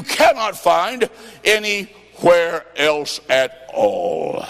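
calling out, slowed on the rebuke; preaching at full force. Acted. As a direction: hammer it home to the congregation. Preacher rebukes and exhorts congregation.

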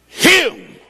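a shocking spoken-out threat; high outburst. Retold or imitated. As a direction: blurt the threat out high and sharp. Drunk woman vows to kill husband.

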